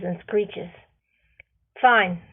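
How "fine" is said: ordinary delivery, nothing marked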